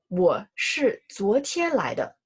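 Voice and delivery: said slowly and evenly, each syllable clear; slow model sentence. Shown as a demonstration. Teacher reads the example slowly for students. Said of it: "For example".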